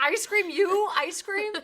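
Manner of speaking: teasing impression of a stunned daughter; incredulous daughter. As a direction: act out her flabbergasted kid. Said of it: "You're like".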